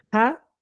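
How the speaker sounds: "Ja" with a strong raspy Spanish J; doble J. Shown as a demonstration. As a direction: hit the J of "Ja" hard, like a doubled J. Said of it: "se pronuncia como la doble J". ("Ja" pronunciado con doble jota)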